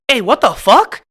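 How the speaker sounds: loud angry challenge, pitch jumping high on Holmes; angry shout. Retold or imitated. Angry cholo father shouting at a teen who mocked his baby. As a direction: yell it across the mall at the guy who insulted your baby. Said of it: "I mean, full on".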